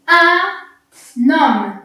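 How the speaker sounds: "Un homme" linked as un-nomme; liaison demo. Shown as a demonstration. Teacher modelling liaison for young readers. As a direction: carry the n into "homme", no h sound. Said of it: "on fait bien la liaison".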